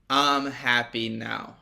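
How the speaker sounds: slow, measured declaration; calm decision. Acted. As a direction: state it simply and slowly. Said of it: "It's the moment you go".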